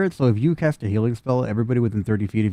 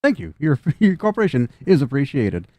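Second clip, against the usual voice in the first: a little higher, stiff and polite; formal machine announcement; lightly voiced prim robot; 4 semitones higher than usual. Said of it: "robot thanks".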